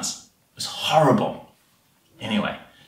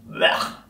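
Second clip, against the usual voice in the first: short grossed-out "blech"; a noise of revulsion at the taste; disgusted blech. Acted. Disgust at eating ants.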